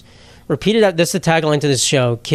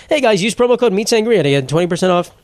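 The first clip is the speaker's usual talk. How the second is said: upbeat fake influencer ad voice, a bit higher; mock sponsor read; 4 semitones higher than usual. Host jokingly doing a sponsor plug for listeners, hammed-up ad read. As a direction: pitch the promo code like a cheesy YouTuber.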